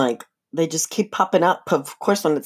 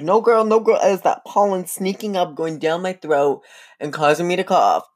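sassy retort; 2 semitones higher than usual. Retold or imitated.

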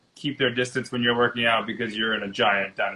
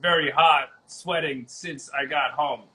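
caveman voice; 2 semitones higher than usual. Pretend. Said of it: "I was gonna use a caveman voice".

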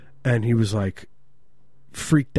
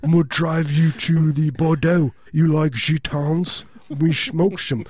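slow, higher mock French accent; 4 semitones higher, slower than usual. Frenchman offering a drive to Bordeaux, slow hammed-up French accent. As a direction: draw it out like a cartoon Frenchman. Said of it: "Did you live in, in Paris".

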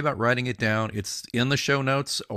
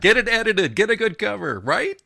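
louder, pitched-up passionate plea; soapbox rant; 5 semitones higher, 6 dB louder than usual. Real, not acted. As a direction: preach it like you're on a soapbox, urging writers. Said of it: "Let me climb off my soapbox now".

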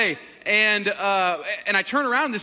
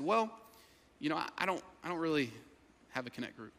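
soft, halting, sinking lower; reluctant admission; 5 semitones lower, 12 dB quieter, faster than usual. Retold or imitated. Churchgoer admitting no connect group, quiet hesitant voice. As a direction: trail off sheepishly.

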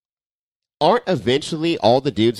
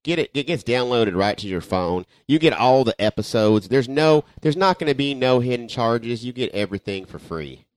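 excited wrestling commentator, louder; Jim Ross impression; 3 semitones higher, 4 dB louder than usual. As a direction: sell it like a ringside announcer. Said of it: "That's my Jim Ross".

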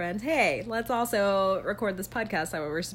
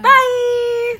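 falling away bye; 13 dB louder than usual. Shown as a demonstration. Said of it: "how do we do the fall thing".

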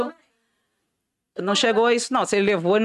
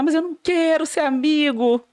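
higher, drawn-out mock plea; retold tearful protest; 6 semitones higher, slower than usual. Rejected old suitor answers her offer of friendship, imitated whine. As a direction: imitate a let-down suitor lightly whining. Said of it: "Ele chorava".

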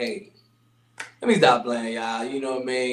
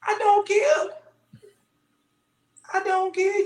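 mock indifference. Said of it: "high mock indifference".

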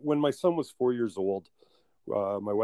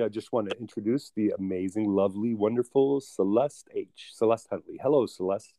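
show host intro. Acted. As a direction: build up the guest's name like a show host. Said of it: "I've missed that intro".

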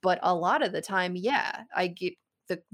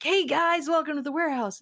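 carnival barker; 9 semitones higher than usual. Retold or imitated. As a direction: hype the crowd like a fairground barker. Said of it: "He talks like a carnival barker".

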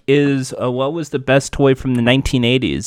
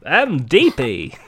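Deepy character; much slower than usual. Acted. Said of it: "looks like a radio announcer or something".

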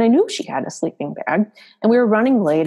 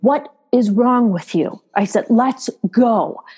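slow, higher-pitched retold scolding; very angry; 4 semitones higher, slower than usual. Angry mom to the daughter who won't walk, retold scolding. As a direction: act out a fed-up parent's order. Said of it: "I was getting very angry".

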